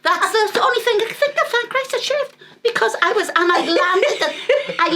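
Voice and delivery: laughing. Real, not acted. Laughing retelling.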